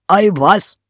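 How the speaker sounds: high, loud exclamation; donkey character. Acted. Donkey brushes aside the rooster's lament, high donkey voice.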